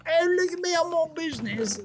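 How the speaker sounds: hammed-up busy businessman voice; mock busy big shot. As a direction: play someone too important to stop. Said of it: "I was trying to be like".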